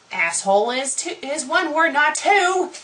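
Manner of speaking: high, rising exasperation; exasperated correction. Real, not acted. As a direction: voice climbing to a loud finish. Reader fed up correcting the spelling.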